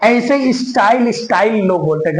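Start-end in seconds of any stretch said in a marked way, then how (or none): 0.5-1.6 स्टाइल as "is-tail" with a clear L; wrong pronunciation. Shown as a demonstration. Teacher mimics what people say, clear-L mispronunciation. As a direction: say स्टाइल with the L fully sounded. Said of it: "गलत है भैया".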